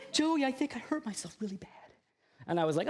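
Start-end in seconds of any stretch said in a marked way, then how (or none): 0.1-1.7 high, frightened plea from the injured wife; scared wife. Retold or imitated. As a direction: sound shaken and pleading. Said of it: "She was so scared".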